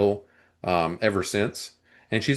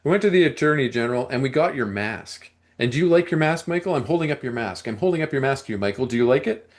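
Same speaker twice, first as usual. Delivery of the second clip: taunting podcaster quote; 4 semitones higher, faster than usual. Retold or imitated. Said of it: "And I'm not doing a British accent".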